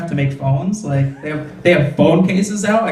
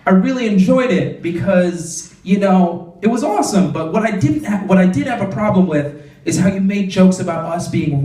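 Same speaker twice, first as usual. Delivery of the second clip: mock audience member; 3 semitones higher than usual. Audience member scolding the comic after the show, mild mock earnestness. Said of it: "they were like".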